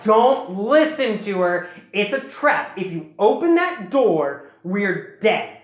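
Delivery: slow, emphatic mock warning; urgent warning. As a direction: warn them off, leaning on each word. Acted urgent warning against a trap.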